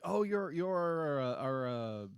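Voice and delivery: mock adoration, slowly searching for the word; slow, lightly voiced awe; adoring Lorbs. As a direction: play an admiring little creature, haltingly. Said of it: "all this adoration from the Lorbs".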